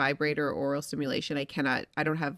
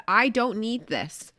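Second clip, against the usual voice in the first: slow, higher, deliberate refusal; mock firm, slow and raised; 5 semitones higher, much slower than usual. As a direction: spell it out slowly, no more. Refusing more toys, retold.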